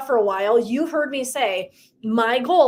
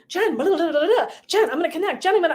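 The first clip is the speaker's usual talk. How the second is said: lightly voiced, higher chatter; mock eager young women; 6 semitones higher, faster than usual. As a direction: imitate excited young women. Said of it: "all the younger women are like".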